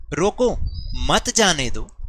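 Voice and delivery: "रोको मत" slowly, then a short pause before "जाने दो"; pause after मत. Shown as a demonstration. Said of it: "थोड़ा सा पॉज दिया".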